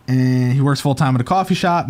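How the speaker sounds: ordinary talk, nothing marked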